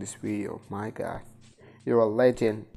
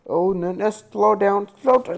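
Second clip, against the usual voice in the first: panicked shout; 7 semitones higher, 9 dB louder than usual. Real, not acted. Panicking as character speeds up.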